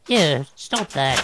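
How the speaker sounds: slow, drawn-out screech of protest. A narrator's reading. Musician seeing his piano attacked, screeching. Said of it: "Groverbs screeched".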